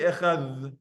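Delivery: "echad" ending in a held th; th dalet. Shown as a demonstration. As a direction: stretch the th at the end of "echad". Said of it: "for this you could say".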